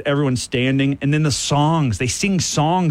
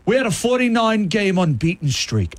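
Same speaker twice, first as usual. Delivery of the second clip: put-on Australian accent; 6 semitones higher than usual. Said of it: "doing Australian accent".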